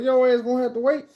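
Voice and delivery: high insistent call, stress on Your; mock yell. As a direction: repeat it, leaning on Your. Repeats through bathroom door.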